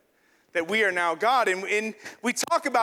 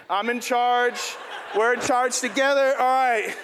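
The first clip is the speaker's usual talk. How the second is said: mock proud boast; 4 semitones higher, 4 dB louder than usual. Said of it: "you're more like this".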